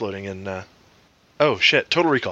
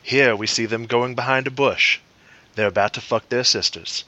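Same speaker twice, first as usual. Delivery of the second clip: Freeman narration attempt; 2 semitones lower than usual. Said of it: "that was a little better".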